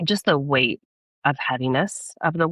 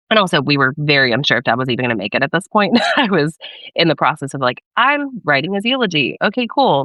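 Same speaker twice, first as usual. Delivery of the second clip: nervous laughter; 7 dB louder than usual. Real, not acted. Nervous laughter about dad dying.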